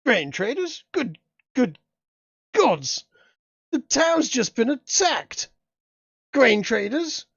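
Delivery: lightly voiced flustered posh gentleman; startled governor at the window, hint of posh. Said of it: "a rather posh gentleman sort of goes".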